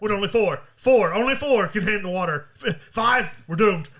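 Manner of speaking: mildly hammed-up dismay; alarmed reenactment. Designer retelling the flooding count, alarmed reenactment. Acting out the stressed compartment count.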